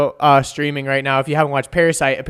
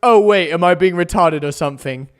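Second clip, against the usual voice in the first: amused, half-laughed retelling; laughing KSI. Retold or imitated. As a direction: laugh through his sudden realisation. KSI realises his mistake.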